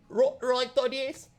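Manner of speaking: high, loud, stammering servant voice; nervous little orc. Acted. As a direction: squeak it out like a jumpy underling. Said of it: "runs up ... and goes".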